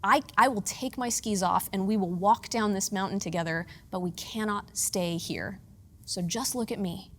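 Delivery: gently steady a frightened wife; calm reassurance. Retold or imitated. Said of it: "And he says".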